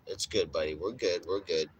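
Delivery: low, easy reassurance to a dog; reassuring. Retold or imitated. Owner telling his guard dog all is clear, reassuring. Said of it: "Or I'll be like".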